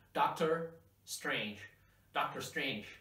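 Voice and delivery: slow, clear "Doctor Strange" to repeat; model for repeating. Shown as a demonstration. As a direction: say "Doctor Strange" slowly, for students to echo. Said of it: "repeat after me".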